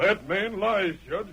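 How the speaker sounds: defiant courtroom outcry; angry outburst. Acted. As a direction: call the witness a liar to the judge's face. Defendant protests in court.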